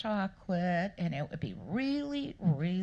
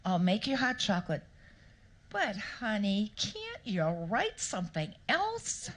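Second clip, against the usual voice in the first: louder, weary husband giving in; fed up but still obliging; exasperated; 2 semitones higher, 3 dB louder than usual. Retold or imitated. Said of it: "And he said".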